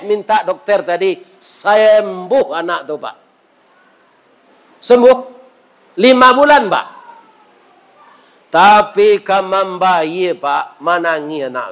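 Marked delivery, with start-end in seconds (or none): 4.8-6.9 higher and louder burst of joy; joyful announcement. Acted. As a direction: announce the miracle with delight. Climax of the healing story. (diumumkan dengan gembira)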